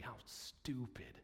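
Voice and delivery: slow unvoiced whisper of self-reproach. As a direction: hiss it out under your breath, slowly. Aside inside a tearful prayer.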